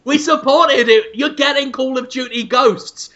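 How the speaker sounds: half-shouted complaint of a captive; mock shouting. Host voices a netted executive protesting, mock shout. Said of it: "you just hear him shouting".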